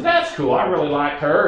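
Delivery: a hint of a chirpy Barbara; Barbara's voice. Barbara says she liked Steve's honey, lightly voiced. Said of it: "I'm gonna talk like Barbara for a minute".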